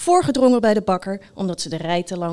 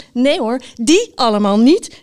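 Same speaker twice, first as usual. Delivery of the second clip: loud, higher call of two hosts; 3 semitones higher, 7 dB louder than usual. A narrator's reading. Two podcast hosts dismiss all the titles, calling out. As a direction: call it out as if in chorus. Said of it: "riepen de twee heren in koor".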